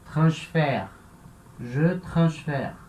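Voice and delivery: "transfère" ending in an open "fehr"; mudança para E aberto. Shown as a demonstration. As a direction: show "transfère" with a clear open È. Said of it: "do som para E". ("transfère" com E aberto na última sílaba)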